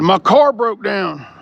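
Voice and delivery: hammed-up imitation of a complainer; mock online complaint. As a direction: drag it out like someone complaining online. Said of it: "He'll probably get on the internet".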